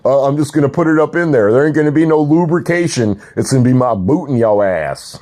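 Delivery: mock tough-guy taunt; hammed-up boot threat. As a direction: lean in and taunt them. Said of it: "I said".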